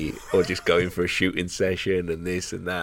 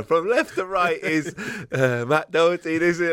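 mock commentator; 10 semitones higher than usual. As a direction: parody team news reading. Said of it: "He's going".

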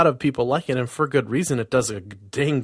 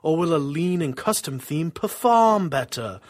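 fading ghostly wail; 4 semitones higher than usual. Pretend. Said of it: "spooky voice".

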